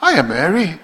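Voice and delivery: a light, casual hiya; friendly hello. Acted. Angel greeting Mary, light casual tone. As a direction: greet her easily, like a friend. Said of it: "Trying to make her at ease".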